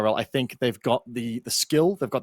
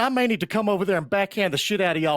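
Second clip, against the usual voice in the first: put-on scolding of the crew; mock outrage; 5 semitones higher than usual. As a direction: play indignant in a silly voice. Mock scolding production in accent.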